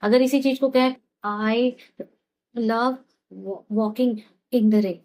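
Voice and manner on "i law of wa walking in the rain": unconfident, stumbling. Shown as a demonstration. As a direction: say it like you doubt yourself, faltering. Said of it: "अरे, इसको तो आता ही नहीं". (झिझकते हुए, बिना कॉन्फिडेंस के)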